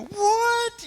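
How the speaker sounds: a very high, loud "What?"; astonished. Retold or imitated. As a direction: shoot up in total disbelief. Sister says she's adopted too.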